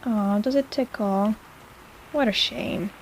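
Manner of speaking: slow, teasing fake sympathy; mock pity. Healer teasing the ticklish patient with mock pity. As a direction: pretend to feel sorry, playfully.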